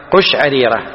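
قشعريرة starting with qush-; damma on ق. Shown as a demonstration. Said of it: "مو قشعريرة". (قشعريرة بضم القاف)

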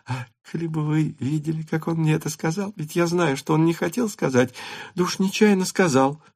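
put-on high, hushed girlish voice; sharing a secret; confiding girl. A narrator's reading. Natasha confides to her mother, hushed.

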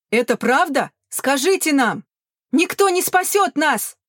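high, loud, slowing cry; panicked shout. A narrator's reading. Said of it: "крикнул кто-то третий". (панический крик)

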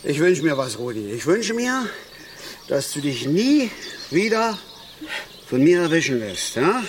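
solemn wish. Acted. To the carp before releasing it, solemn and heartfelt. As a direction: make a heartfelt promise.

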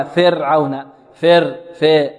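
فرعون said fer-awna, kasra slackened; wrong fa vowel. Shown as a demonstration. Teacher demonstrating what not to say, wrong fa vowel. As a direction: open the first vowel of فرعون toward e. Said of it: "لا نقول فرعون".

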